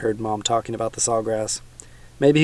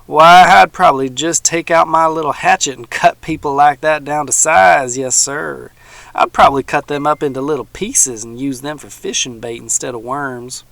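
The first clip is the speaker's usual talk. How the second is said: put-on louder, menacing old man; old man boasting of his hatchet, louder; almost bellowing; 3 semitones higher, 7 dB louder than usual. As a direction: threaten the boy, voice rising. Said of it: "He was almost bellowing".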